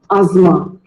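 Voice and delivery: asthma as az-ma, with no th sound; asthma, the model way; correct pronunciation. Shown as a demonstration. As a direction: asthma with a silent T and H. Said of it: "The T and H is silent".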